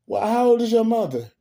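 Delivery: high-pitched mock interrogation; Madea questioning. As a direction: play Madea pressing the girl for an answer. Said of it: "when she asked the little girl".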